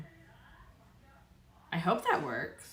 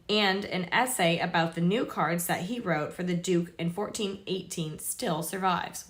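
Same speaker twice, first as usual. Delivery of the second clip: measured read-aloud of an article; 2 semitones higher, 5 dB louder than usual. Real, not acted. Reading tarot history to viewers, read-aloud voice. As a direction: read it out to viewers, clearly projected.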